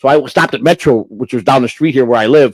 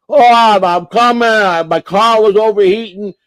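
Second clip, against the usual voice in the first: higher, apologetic excuse voice; sheepish excuse; 7 semitones higher, slower than usual. Retold or imitated. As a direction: sheepishly explain being late.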